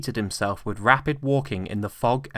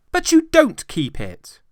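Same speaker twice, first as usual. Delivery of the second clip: very high, loud disbelief; incredulous; 8 dB louder than usual. A narrator's reading. Nephew astonished at his uncle's words, high disbelief. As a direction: echo it in amazement.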